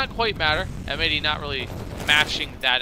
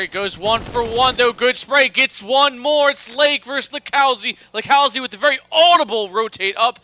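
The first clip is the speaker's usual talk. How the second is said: louder, higher hype call; calling the duel with mounting excitement; esports caster; 7 semitones higher, 8 dB louder than usual. Real, not acted. One versus one clutch unfolding.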